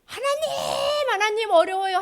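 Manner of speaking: high, drawn-out mock wail; pleading. Person in hardship appeals to God, acted pleading wail. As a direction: whine up to God for help, hammed-up. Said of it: "했다가".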